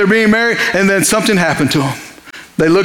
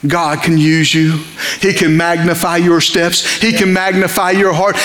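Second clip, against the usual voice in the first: low earnest appeal; 4 semitones lower than usual. Acted. Preacher drops low, slow.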